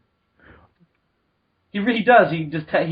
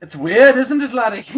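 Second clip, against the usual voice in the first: put-on Scottish accent; 3 semitones higher, 4 dB louder than usual. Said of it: "why is Alan Moore Scottish".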